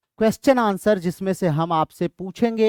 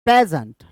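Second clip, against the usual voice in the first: "प्रेजेंट" stressed on प्रे; stress on first syllable; 2 semitones lower, 4 dB louder than usual. Shown as a demonstration. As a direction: lean on प्रे in "प्रेजेंट", lighter ending. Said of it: "इस पे ज्यादा stress करते हैं". ("प्रेजेंट" के पहले हिस्से पर ज़ोर)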